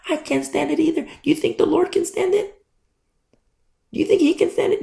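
very high, ringing indignation; indignant outcry. Real, not acted. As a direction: cry it out in disbelief. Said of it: "preacher's indignant outburst".

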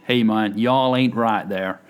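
hammed-up Appalachian twang, badly attempted; terrible southern accent. Shown as a demonstration. Host apologising to offended southerners in a badly faked southern accent. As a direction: put on a clumsy Southern US drawl. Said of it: "this is a terrible southern accent".

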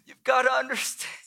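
halting plea with long pauses; acted desperation, starting hushed; desperate, quivering. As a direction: plead as if at the end of hope. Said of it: "a tone of desperation and maybe a, a quiver in his voice".

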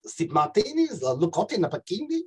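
hurried South African accent attempt. Shown as a demonstration. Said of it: "A South African accent switch too".

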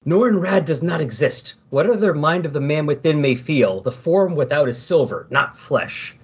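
lightly acted dramatic monologue; solemn inner monologue, mildly hammed up, sinking at the end; Silver Surfer. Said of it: "internal monologues".

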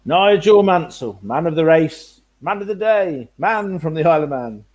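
slow, grand commentator call; race commentator. Retold or imitated. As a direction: proclaim it like a trackside commentator. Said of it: "start on our Murrayisms".

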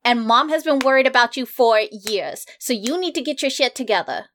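exasperated sibling telling-off; in-character family nagging; scolding sister. Acted. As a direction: lecture a wayward brother, leaning on the words.

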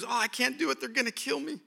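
high, frantic whimpering panic; panicky fear. Retold or imitated. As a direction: squeal in mock terror. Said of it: "he goes back into fear".

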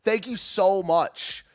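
slow, drawn-out sarcastic thanks. Real, not acted. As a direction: thank them with heavy irony. Sarcastic thanks to a chat warning.

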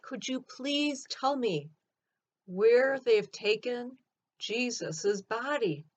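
slow, measured, mildly pleading; an understated, earnest plea. Acted. Mary pleads with the gardener for Jesus's body, mild pleading. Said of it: "I pleaded with the gardener".

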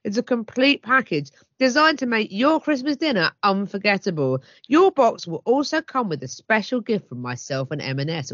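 lively, emphatic advert read; promotional read. Acted. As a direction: sell the festive box with relish. Reads out chef's promotional copy.

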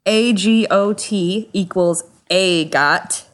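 slow letters, then "A got" as a word; sounded-out acronym. Shown as a demonstration. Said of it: "This is all sounded out".

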